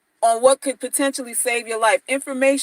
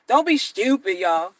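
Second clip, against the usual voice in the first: Jess Hilarious impression; 4 semitones lower than usual. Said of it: "That's how she say stupid".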